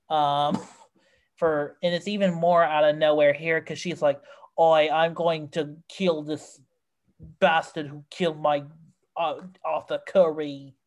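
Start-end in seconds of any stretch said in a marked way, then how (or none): 4.6-10.7 mock British accent. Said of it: "that's my impression of Amber Heard's English accent".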